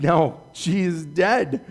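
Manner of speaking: slow, mildly mocking retort; mocking disbelief. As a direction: stretch it out, lightly scoffing. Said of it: "They were actually mocking him".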